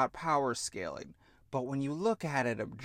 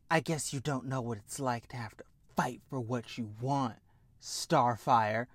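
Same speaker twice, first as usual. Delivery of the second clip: catty retort; 4 semitones lower, 4 dB quieter than usual. Retold or imitated. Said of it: "Blackfire comes in".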